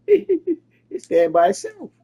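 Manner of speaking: amused, laugh breaking into the line. Real, not acted. Making his point about the truth, laughing. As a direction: chuckle through the words.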